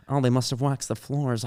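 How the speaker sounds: lightly imitating a deadpan mom; mom's exact delivery. Comic quoting a mom after her daughter fell, lightly imitated. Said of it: "this is exactly how she said it".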